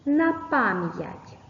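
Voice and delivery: На пам'ять said slowly, the stress landing on the syllable пам; slow stress demo. Shown as a demonstration. Teacher demonstrates the stress slowly to pupils. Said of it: "поставивши наголос".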